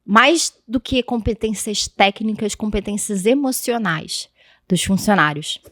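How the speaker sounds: talking around a hard candy; words round a lozenge; candy in mouth. Real, not acted. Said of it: "eu tô com uma bala na boca".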